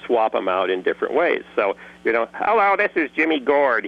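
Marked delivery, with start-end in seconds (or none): 2.3-3.9 Jimmy Gord voice. Shown as a demonstration. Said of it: "just this tonality without really any dialect".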